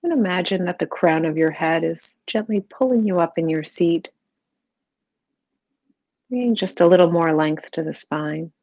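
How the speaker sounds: calm, even meditation voice with long pauses; guided meditation. Real, not acted. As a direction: gently guide the listener into stillness, unhurried.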